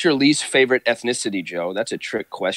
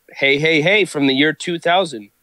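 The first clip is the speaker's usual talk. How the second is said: announcer call; 6 semitones higher, 4 dB louder than usual. Acted. Announcing a time-traveller arrival.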